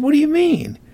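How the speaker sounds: high-pitched startled question; shocked protest. Acted. Apprentice hearing the master claim his money, shocked protest. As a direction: act taken aback, voice leaping up.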